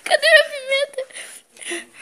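slow pained whine; burning mouth, drawn out; mouth burning from spicy food. Real, not acted. After eating pepper, slow cry.

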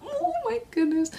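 choked up over a palette; tearing up from sheer delight; a small happy sob in the voice; near tears with joy. Real, not acted. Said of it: "It's just making me tear up".

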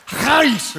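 Charis with a harsh throat-clearing ch; throaty charis. Shown as a demonstration. Preacher teaching the Greek word to the church, throaty Charis. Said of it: "say it like you're hacking a loogie".

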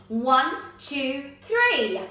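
big-voiced count-in. Shown as a demonstration. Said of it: "in our biggest voices".

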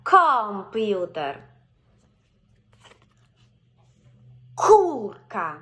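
Картина said very slowly, loud hard К at the start; повільно, з наголосом на К; slow, stressed first syllable. Shown as a demonstration. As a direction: stretch Картина slowly for the child. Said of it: "ми звертаємо на перший склад".

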